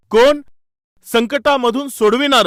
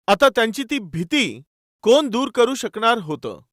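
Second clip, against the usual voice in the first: usual speaking voice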